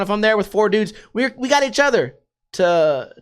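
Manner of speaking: ordinary talk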